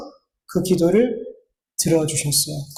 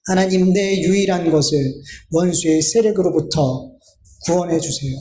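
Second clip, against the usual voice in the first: lowered, measured plea; earnest prayer; 4 semitones lower than usual. Retold or imitated. Preacher voicing Jesus' true cry to God, subdued plea. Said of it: "하고 싶었던 외침이 뭘까요".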